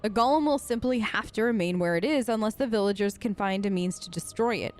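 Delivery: put-on lightly formal narration of an old letter; letter read aloud. A narrator's reading. Reads a found letter aloud.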